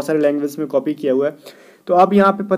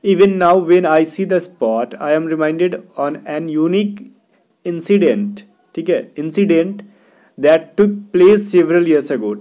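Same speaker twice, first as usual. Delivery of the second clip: reading the exam sentence out slowly, word by word; slow dictation read; much slower than usual. Shown as a demonstration. Teacher slowly reads the question sentence aloud to students. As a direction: lay each word down slowly for the class.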